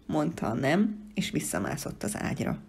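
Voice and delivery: ordinary delivery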